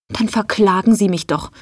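a touch of snippy defiance. Acted. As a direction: toss it off cheekily, lightly played. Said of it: "antwortete Joe schnippisch".

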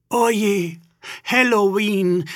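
high, loud, drawn-out exclamation; dismayed cry. A narrator's reading. Ghost realises from the calendar what day it is, high dismayed cry. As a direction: call it out high in alarm, stretching the words. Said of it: "rief Igitta".

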